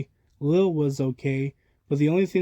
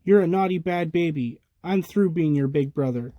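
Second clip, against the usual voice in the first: angry scolding; 3 semitones higher than usual. Acted. Tommy scolds Dill.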